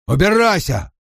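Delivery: high, sharp order to leave; angry yell. A narrator's reading. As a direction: yell it to drive her off. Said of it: "заорал он". (злой высокий окрик)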